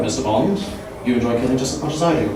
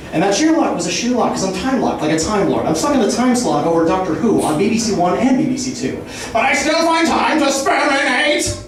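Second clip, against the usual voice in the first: rapid absurd wordplay rant, building; escalating comedy rant. Acted. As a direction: riff faster and wilder as it goes. Roast-style free-association rant.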